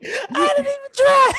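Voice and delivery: high voice breaking into laughter; can barely get the words out; stifled giggles. Real, not acted. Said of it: "he doing that silent laugh".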